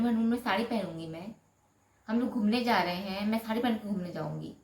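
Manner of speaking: a hint of sarcastic mimicry, quick on "मैं honeymoon में साड़ी पहनूंगी"; mocking mimic. Husband mocks wife's saree line, quick and sarcastic. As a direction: parrot her words back mockingly. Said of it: "बोले".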